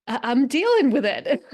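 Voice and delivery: loud, mock-defensive comeback; indignant retort. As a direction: protest as if pissed off. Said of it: "I'll be so pissed".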